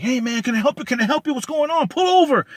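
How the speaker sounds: high, rising mock-polite voice climbing to a loud order; nosy stranger mimicked in a high voice; imitating a white man. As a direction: play a pushy stranger offering help. Voicing the white man behind him.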